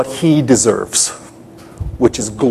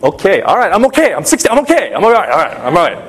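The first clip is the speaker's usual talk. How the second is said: panicky self-reassurance; 4 semitones higher, much faster than usual. Retold or imitated. Lost teenager telling himself he is fine, nervously. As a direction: talk yourself out of panic, pitch jumping.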